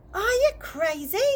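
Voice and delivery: mock the idea with a sneer; sneering stepmother. A narrator's reading. Stepmother sneering at dad's hamster idea, scornful. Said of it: "sneered her stepmother".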